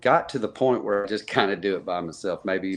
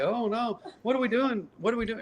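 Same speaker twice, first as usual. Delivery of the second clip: mock panic; 13 semitones higher, 3 dB quieter than usual. Retold panic over fainting fan.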